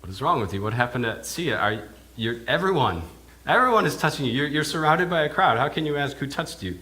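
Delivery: rising into loud disbelief; exasperated disciples. Retold or imitated. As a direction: disciples ask how he can ask that. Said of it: "his disciples thinking".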